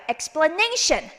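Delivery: slow "explanation" with a long NA; stress on NA. Shown as a demonstration. Teacher modelling for repetition, stressed NA. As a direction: lean hard on NA in "explanation". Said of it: "전에다가 액센트".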